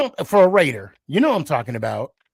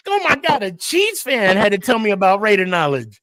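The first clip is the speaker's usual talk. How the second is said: high-pitched exasperated disbelief; mock exasperation; 6 semitones higher than usual. Real, not acted. Host embarrassed that a Chiefs fan knew Raider history, exasperated. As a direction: wail it in comic dismay.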